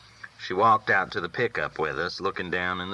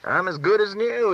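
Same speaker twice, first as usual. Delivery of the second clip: much higher, proud and grinning; grinning, pleased; 13 semitones higher, 3 dB louder than usual. A narrator's reading. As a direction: brag like a possum with a grin. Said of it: "grinning like a possum".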